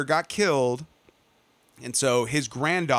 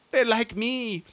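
mock gleeful shout; 7 semitones higher, slower than usual. Clone girl pressing the button, mock gleeful high shout. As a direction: ham up the clone girl's triumph. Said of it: "and she's like".

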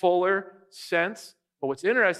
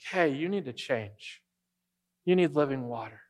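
gentle; 3 semitones lower than usual. Retold or imitated. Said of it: "He's very gentle".

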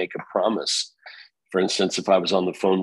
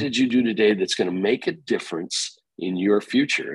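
pushy boss questions; 3 semitones higher than usual. Retold or imitated. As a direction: push them to account for their day. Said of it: "a little bit of pushing".

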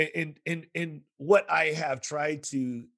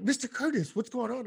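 higher protective teacher voice; Mama Bear teacher; 8 semitones higher than usual. Retold or imitated. Teacher rushing to protect her students, higher Mama Bear voice. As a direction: swoop in like a protective mother bear. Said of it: "like Mama Bear".

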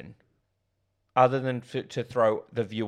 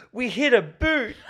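high, slow, giggly ditzy voice; mock dumb girl quote; 13 semitones higher, 7 dB louder, slower than usual. Friend retelling a Scary Movie scene, high giggling ditzy voice. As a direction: squeal it out like a clueless girl holding a boot. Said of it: "She goes".

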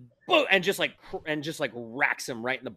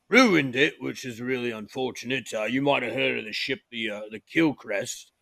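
hesitant crewman; 4 dB louder than usual. Acted.

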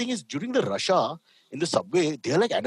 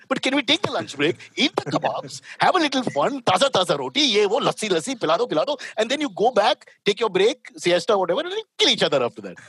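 imitating a soldier; 5 semitones higher than usual. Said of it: "put it out there as a concept".

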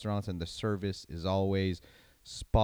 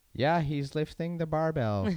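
higher, mock announcer repeating the obvious; hammed-up commentator, higher pitch; mock parrot announcer; 6 semitones higher than usual. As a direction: parody a commentator stating the obvious. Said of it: "parrots that are just repeating".

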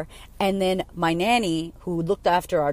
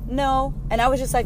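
ordinary talk

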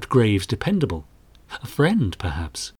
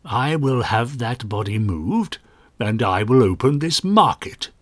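gruff. Acted. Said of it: "continued Hicks gruffly".

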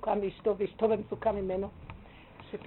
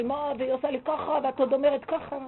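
higher, louder indignant complaint as the angry husband; mock angry husband; 4 semitones higher, 5 dB louder than usual. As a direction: imitate an aggrieved husband lashing out. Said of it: "כאילו, כועס עליי". (חיקוי של בעל כועס)

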